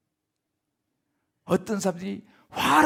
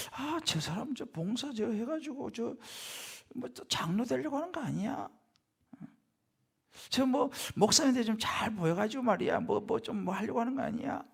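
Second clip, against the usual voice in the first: suspicious murmur; 2 semitones higher, 7 dB quieter than usual. Acted. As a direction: grumble under your breath as a doubting onlooker. Acting suspicious gossip about a volunteer.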